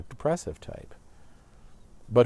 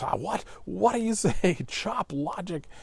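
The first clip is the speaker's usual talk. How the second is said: blustering; 8 semitones higher than usual. Retold or imitated. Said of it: "Lord Capulet just blusters".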